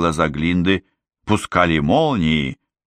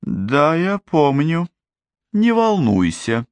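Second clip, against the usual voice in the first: cold reply; 10 semitones higher, slower than usual. Acted. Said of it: "холодно ответила Гламора".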